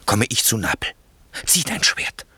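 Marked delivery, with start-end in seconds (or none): 1.5-2.3 high, voiceless urgent push; urgent command. Acted. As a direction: urge him to draw now. Urging the murder, commanding. (drängender Befehl)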